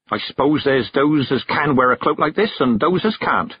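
put-on old country witch allowing a point; conceding. A narrator's reading. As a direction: concede it with a touch of reluctance. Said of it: "she conceded".

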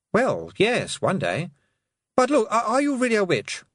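put-on high, uneasy boyish voice; young Roland voice. A narrator's reading. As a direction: ask warily like a nervous boy.

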